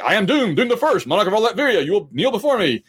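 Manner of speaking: high, grandiose villain proclamation; over-the-top evil villain. Retold or imitated. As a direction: declaim it like a monarch demanding worship. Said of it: "more over-the-top evil".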